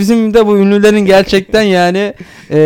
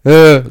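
male inner voice grunt; 3 semitones lower, 5 dB louder than usual. Retold or imitated. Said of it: "böyle erkek sesi".

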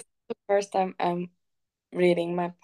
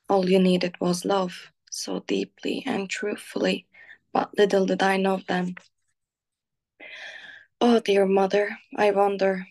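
poem reading. Acted. Reading her own poem about her mother aloud, tender and pained. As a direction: read it like a painful letter to your mother.

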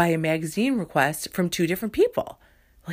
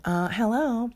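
other woman voice; 6 semitones higher, slower than usual. Acted. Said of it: "I'm gonna be the other woman now".

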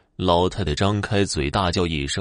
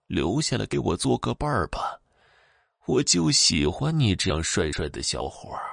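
put-on softer, sly old ghost woman; sly chuckling threat; 3 dB quieter than usual. Old ghost woman coaxing the young man to stay, softer and sly. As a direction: coax him like a creepy granny. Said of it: "老太太嘿嘿地说道".

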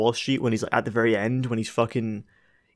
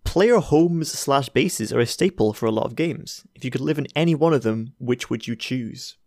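slow question read. Shown as a demonstration. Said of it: "Ginger Jotun asks".

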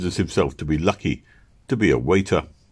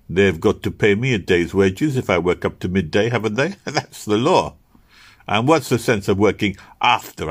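cheeky Serbian waiter; 2 semitones higher than usual. Acted. Serbian explains his scheme.

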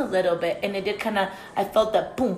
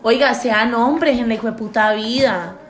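scolding rant; 3 semitones higher, 6 dB louder than usual. Acted. Scolding male listeners.

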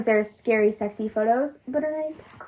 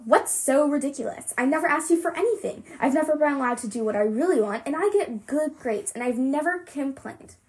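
upset protest; 3 semitones higher than usual. Acted. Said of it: "I shout".

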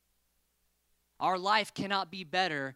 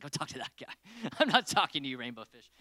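dismissive starfish; 3 semitones lower, faster than usual. Retold or imitated. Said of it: "She's like".

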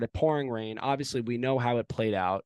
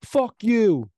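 retold drunk yell; 8 semitones higher, 8 dB louder than usual. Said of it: "and he says".

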